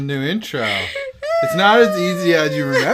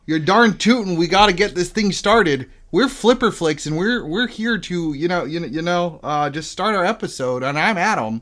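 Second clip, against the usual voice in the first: Midwestern mom voice with a Morty whine; folksy Minnesota-style accent; 2 semitones higher than usual. Acted. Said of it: "You sounded just like her, except for the part where you also sounded like Morty".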